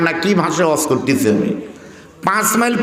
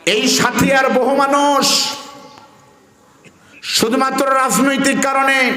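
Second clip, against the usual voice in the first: raised oration; 4 semitones higher than usual. Acted. A different raised speech.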